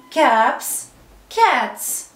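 "كابس" and "كاتس" each ending in a voiceless s; final s sound. Shown as a demonstration. Teacher showing s after p or t, "كابس" and "كاتس" ending in s. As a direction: model "كابس", then "كاتس", keeping the final s. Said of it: "بيتنطق اس زي ما هو".

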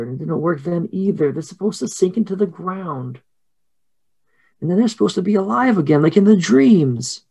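put-on high, plaintive little-girl voice; childlike protest, pitched well up; crying girls. Twins explain the failed ritual, high upset whine. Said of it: "the girls start crying".

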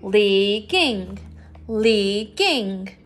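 Leaking said in two beats, LEAK-ing; syllable split. Shown as a demonstration. Teacher breaking Leaking into syllables with the class. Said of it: "How many syllables are in leaking?".

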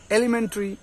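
এলিমেন্টারি as "e-li-men-tri"; correct pronunciation. Shown as a demonstration. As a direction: drop the "ta" from এলিমেন্টারি. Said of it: "এরকম করে উচ্চারণ করবে".

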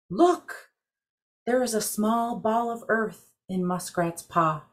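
high amazed cry of discovery; amazed exclamation. Acted. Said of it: "exclaimed in amazement".

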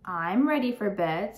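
slow, sweet little-sister line; sweetly. Acted. Little sister tells Dad she's ready, sweetly. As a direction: lay on mild sweetness, unhurried. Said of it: "said D W sweetly".

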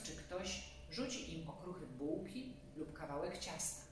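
ordinary delivery, nothing marked

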